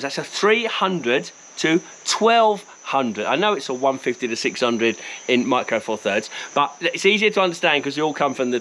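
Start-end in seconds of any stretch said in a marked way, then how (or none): 0.0-3.2 slowly spelling out the numbers; slow and deliberate. Shown as a demonstration. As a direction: give each number its own weight, slowly. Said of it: "I'm gonna put this lens in thirty-five mil terms".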